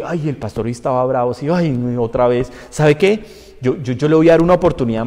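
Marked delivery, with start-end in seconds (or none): 0.0-2.5 lightly voiced grumbling churchgoer; mock gossip. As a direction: imitate members complaining among themselves. Acts out congregants gossiping about pastor.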